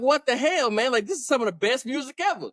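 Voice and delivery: retold exasperated disbelief; high what the hell; incredulous. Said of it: "I'm like".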